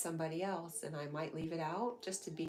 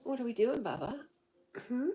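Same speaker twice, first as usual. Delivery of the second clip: talking to a pet; 7 semitones higher, 6 dB louder than usual. Real, not acted. Talking to her dog.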